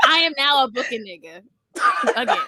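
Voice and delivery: half laughing, half sobbing; cry-laugh the good news. Real, not acted. Laughing mock sob.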